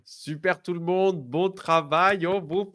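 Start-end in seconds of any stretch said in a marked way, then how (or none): none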